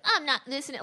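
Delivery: lightly imitated disrespectful student; poser kid. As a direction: play at being the kid who refuses. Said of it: "like that".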